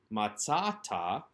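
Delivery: matzata, slow, with "tza" leaned on; matzata, stress on "tza" said slowly; stress on the second-to-last syllable. Shown as a demonstration. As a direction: draw out matzata and lean on "tza". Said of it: "the penultimate syllable being emphasized".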